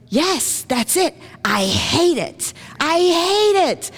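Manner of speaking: a high, strained android voice, rising to a crying pitch on the last I hate it; Data hating it. Retold or imitated. Speaker retelling Star Trek as Data, high and strained. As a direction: play Data near tears at a drink he hates. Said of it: "Data says".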